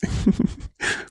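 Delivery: a short, breathy laugh squeezed out on request; forced laugh. Acted. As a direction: laugh because you were told to. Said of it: "சிரி". (கேட்டதால் வரும் சிறு வலிந்த சிரிப்பு)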